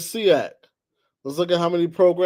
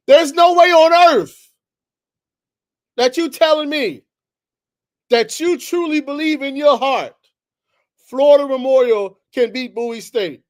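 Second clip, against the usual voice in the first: higher, louder incredulous rant; fired up and refusing to believe it; loud, high, exasperated disbelief; heated rant; 4 semitones higher, 5 dB louder than usual. Real, not acted. Heated rant about rankings.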